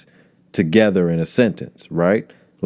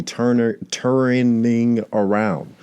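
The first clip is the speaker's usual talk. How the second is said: drawn-out mockery; 3 semitones higher, much slower than usual. Mocking show's alliteration.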